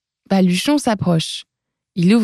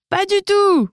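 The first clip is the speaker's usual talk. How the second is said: emphatic denial; 12 semitones higher than usual. Acted. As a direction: protest it together. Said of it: "répliquent Baluchon et Trudy".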